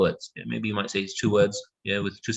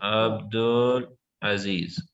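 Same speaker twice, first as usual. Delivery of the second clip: slow syllable demo; 3 semitones lower, much slower than usual. Shown as a demonstration. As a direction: say Abdul Aziz slowly, syllable by syllable. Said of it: "Three syllable".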